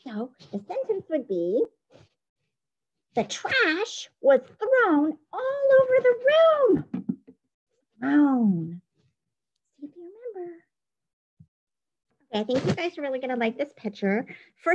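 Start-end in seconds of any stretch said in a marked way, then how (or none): 3.1-8.8 slow, high and loud dictation. Shown as a demonstration. Teacher dictating a spelling sentence to students, slow and loud. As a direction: spell it out slowly for the class.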